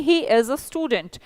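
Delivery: very slow, clear teacher model; slow model sentence. Shown as a demonstration. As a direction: spell out each word slowly for learners. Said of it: "तो आप बोलेंगे". (बहुत धीरे, साफ़ सिखाता हुआ वाक्य)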